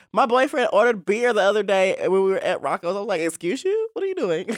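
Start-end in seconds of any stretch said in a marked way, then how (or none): 3.2-4.5 indignant mock outrage. Mocking boyfriend ordering beer.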